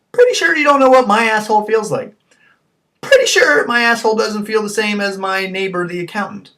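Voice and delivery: loud hoarse stage whisper; mock-sinister stage whisper. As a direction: hiss it out as a creepy aside. Mock creepy doctor aside.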